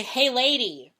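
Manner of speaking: loud playful call of Hey, lady; mock casual greeting. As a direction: toss off a cheery Hey, lady. to a stranger. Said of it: "Or I say".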